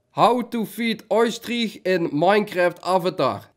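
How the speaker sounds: slow, word-by-word query; deliberate, evenly spaced words; careful voice command. Real, not acted. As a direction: spell it out slowly for a voice assistant. Repeats query for voice assistant.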